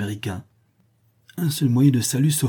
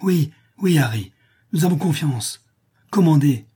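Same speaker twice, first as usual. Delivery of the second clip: rough voices; 6 semitones higher, 5 dB louder than usual. A narrator's reading. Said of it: "répondent quelques voix rudes".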